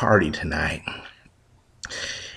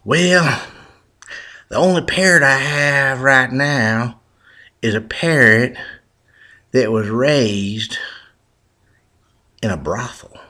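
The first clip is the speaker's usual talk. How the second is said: louder, slowed shopkeeper confiding a warning; slow, louder pet shop owner; lightly voiced shopkeeper; 4 semitones higher, 5 dB louder than usual. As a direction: lean in like a shopkeeper with bad news.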